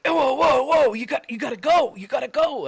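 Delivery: high-pitched urgent warning; imitated alarm. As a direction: act out a buddy warning you off a charging goat. Buddy warns as goat charges.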